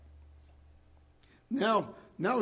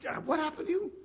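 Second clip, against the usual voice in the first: much higher pushy question; questioning Pharisee; 8 semitones higher, faster than usual. Acted. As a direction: needle him with a high demand. Acted Pharisee questioning believer.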